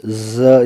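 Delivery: ज buzzed out through pressed teeth; teacher's z demo; clenched-teeth z. Shown as a demonstration. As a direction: press the teeth together and breathe ज out. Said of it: "दोनों दांतों को दबा करके breath out करते हुए".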